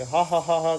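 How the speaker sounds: a quick, half-hearted show laugh; light demo laugh. Shown as a demonstration. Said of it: "करके हंस रहा है".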